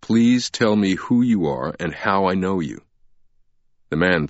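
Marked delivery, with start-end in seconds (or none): 0.0-2.8 calm. Acted. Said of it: "Langdon repeated his question calmly".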